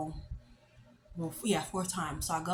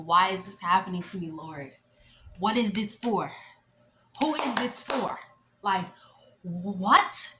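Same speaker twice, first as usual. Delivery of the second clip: exasperated disbelief; 4 dB louder than usual. Retold or imitated. Acted disbelief at examiner getting in.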